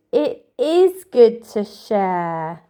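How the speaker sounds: slow, agreeable bear voice; bear agreeing. Acted. Bear agreeing with his friends, slow and content. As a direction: say it slowly, gladly agreeing. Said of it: "Bear agreed".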